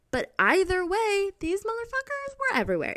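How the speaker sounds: high-pitched shriek of horror at the maggots; shrieking disgust. Real, not acted. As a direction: squeal it out, grossed out. Peak of disgust story.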